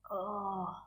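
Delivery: stuffy nose, congested voice; blocked nose. Real, not acted. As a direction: talk through a blocked nose. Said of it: "I can't breathe through my nose".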